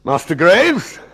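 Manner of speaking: controlled, ominous headmaster address; name the pupil with chilly restraint; measured and pitiless; icy calm. Acted. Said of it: "he said with a calm devoid of anything remotely resembling human understanding".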